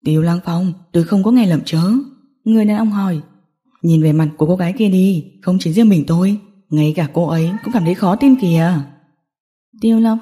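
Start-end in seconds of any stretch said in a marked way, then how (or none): 0.0-1.9 low, incredulous gangster; lightly voiced taunt; mocking villain. 3.8-8.7 lightly voiced gang boss, low; low, amused jeer; mocking villain.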